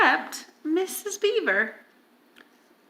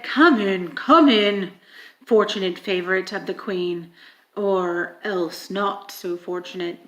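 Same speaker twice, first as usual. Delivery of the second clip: low, fast wolf voice with a sneer; lightly voiced menacing wolf; wolf policeman sneering at guest; sly wolf; 5 semitones lower than usual. Wolf greeting Edmund at door.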